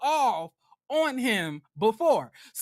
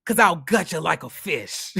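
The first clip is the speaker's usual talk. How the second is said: snarled death threat, voice gone rough; threatening shout. Retold or imitated. Furious girlfriend shouting threats at her man. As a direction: threaten to gut him, yelling it out. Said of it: "She was like".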